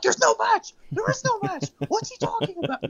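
very high, strained indignant squeal; indignant Tony Schiavone. Retold or imitated. Podcaster mimics Tony Schiavone sputtering that there is no match, in a very high squeal. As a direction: squeal it like a commentator losing it. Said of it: "He's like".

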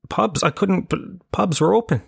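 suddenly realising the pubs are open; surprised realisation. Real, not acted. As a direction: genuine surprise breaking into the story.

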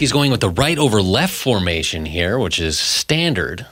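play-by-play announcer calling it; sports play-by-play. Shown as a demonstration. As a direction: call it like a sportscaster. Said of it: "Why don't you describe".

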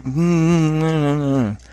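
mock disapproving closed-mouth humming; disapproving hum. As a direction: hum along as if unimpressed. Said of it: "because she disapproves of the message".

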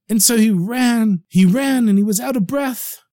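high, excited narration; breathless urgency. A narrator's reading. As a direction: rush it like a race. Narrating the frantic run.

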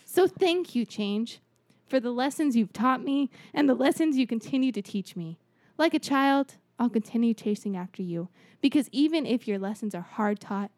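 grand speech. Acted. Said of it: "the way you said it".

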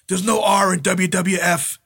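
mock-insist it, drawing the words out; arguing. Sheik disputing the jump off the R, arguing. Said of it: "the Sheik's arguing".

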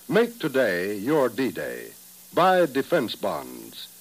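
slow, emphatic announcer read; ad slogan. Acted. Announcer urges listeners to buy bonds, slow and emphatic. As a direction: land the slogan deliberately.

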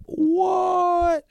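sudden high shout of disbelief; shocked shout. Real, not acted. Fan stunned by the cup result, shouting in disbelief. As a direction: yelp it out, stunned by the news.

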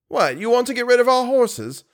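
high, incredulous protest; shocked question. A narrator's reading. Manager hears the groom's demand, shocked. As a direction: react in astonished disbelief.

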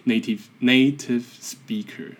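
"native speaker" with a heavy Taiwanese accent, slow. Shown as a demonstration. Podcaster mocking his own English, heavy Taiwanese accent. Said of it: "强调还很重".

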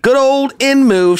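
high, slow fond nickname; fond mock drawl. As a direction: savour the name like an old friend.

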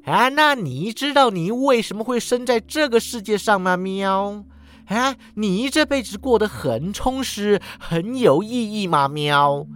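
猫的反问; mocking cat. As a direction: needle her like a smug cat. Cat retorts.

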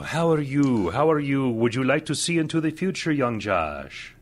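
hammy mystic fortune teller voice; lightly voiced fortune teller. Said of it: "put on my fortune teller's turban and my cape".

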